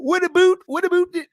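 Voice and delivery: high, loud mock Canadian "What about" with "about" said as "a boot". Imitating what people think Canadians sound like, a squeaky Canadian accent. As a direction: pitch it way up in a goofy Canadian accent. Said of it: "people go".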